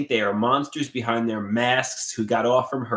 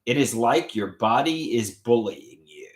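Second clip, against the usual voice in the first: whispered. Retold or imitated. Doctor character quote.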